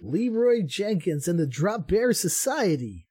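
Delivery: a mock Australian accent read; Aussie accent. Co-host reading team names in an Aussie accent. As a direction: put on a playful Aussie accent. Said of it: "I'm gonna try to read this in my Aussie accent".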